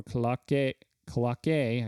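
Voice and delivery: KOLAKE attempted as ko-lah-KAY; unsure stab at saying KOLAKE; struggling pronunciation. Shown as a demonstration. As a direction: stumble through KOLAKE, trying it twice. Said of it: "I can't say it".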